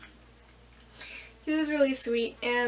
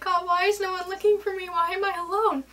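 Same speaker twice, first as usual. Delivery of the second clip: dramatic plea; 6 semitones higher, 3 dB louder than usual. Retold or imitated. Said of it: "I am really dramatic".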